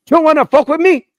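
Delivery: high, loud mock Hispanic drill instructor; Hispanic accent. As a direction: bark it in a thick Hispanic accent. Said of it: "his accent".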